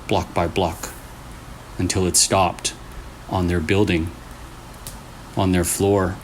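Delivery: creepy story narration. A narrator's reading. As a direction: draw the listener into a spooky tale. Reads a creepy story aloud.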